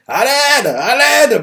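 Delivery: call for help. Acted. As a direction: yell for help, stuck. Trapped character calls for help.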